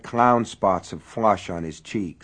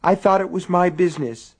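high, loud defiant retort; 10 semitones higher, 5 dB louder than usual. A narrator's reading. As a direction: throw it back at him. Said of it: "defiant face".

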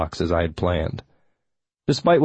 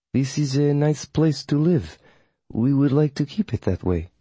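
higher, unhurried coven witch; formal witch, measured; 6 semitones higher than usual. Acted. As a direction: state it politely in the witch's raised voice. Voices witch Melina.

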